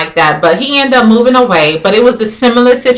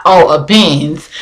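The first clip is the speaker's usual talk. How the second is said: low, slow, understated notice; note it coolly, pitched down and unhurried; not groupie-like; 5 semitones lower, slower than usual. Retold or imitated. Woman turning to glance at a Benz, playing it cool. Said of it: "But I wasn't, like, groupie Benz".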